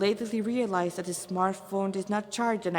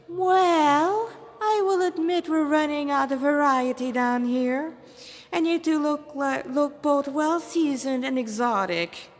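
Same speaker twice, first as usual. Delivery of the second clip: higher, louder, refined demon voice; smug demon; 6 semitones higher, 4 dB louder than usual. Acted. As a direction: savour the offer like a gourmet. Demon character voice.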